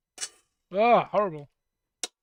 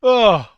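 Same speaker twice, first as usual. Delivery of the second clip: loud groan; 4 semitones higher, 15 dB louder than usual. Real, not acted. Reacts to terrible sound.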